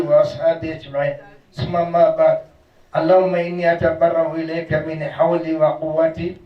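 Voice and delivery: rapid formulaic Arabic recitation, fast and steady; fast memorised prayer formula; sermon opening recitation. Acted. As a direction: rattle off the opening praise like a practised imam.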